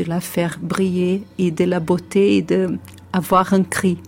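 Brazilian accent in French; French with a Portuguese accent; foreign accent in french. Real, not acted. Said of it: "mon français c'est pas assez, assez bon pour ça".

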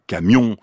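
camion said slowly, stressed on the last syllable; final-syllable stress. Shown as a demonstration. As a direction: lean on the end of camion. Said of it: "La dernière syllabe est plus forte". (camion, accent sur la dernière syllabe)

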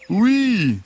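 high, sweet fox voice; gentle fox voice. Acted. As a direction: play the friendly fox. Fox voice continues.

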